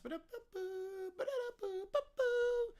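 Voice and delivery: ba-da-pa jingle done by mouth; theme tune imitation. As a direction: sing out a wordless show theme. Mouths the game show theme tune.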